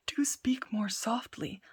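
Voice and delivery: slow, hushed whisper; whispering thieves. Acted. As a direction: hush him urgently. Thieves hush Tom.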